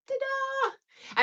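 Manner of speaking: high sung ta-da; ta-da flourish. Real, not acted. Showing viewers her old stage photo, bright ta-da. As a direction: present it with a flourish.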